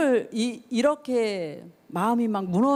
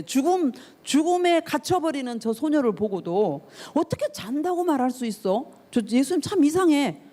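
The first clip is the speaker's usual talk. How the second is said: imitating the crowd's sneering ridicule, raised pitch; mocking scorn; 4 semitones higher than usual. Crowd sneering at Jesus who says the girl sleeps. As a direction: scoff like a doubting bystander. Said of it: "대놓고 예수님을 향해서 비웃는 거예요".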